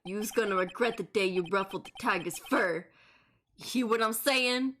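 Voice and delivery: lightly voiced Brooklyn tough guy; menacing thug witness. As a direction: threaten with a hint of thug.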